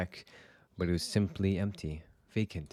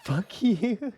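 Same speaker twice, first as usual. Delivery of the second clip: defiant shout; 13 semitones higher than usual. Acted.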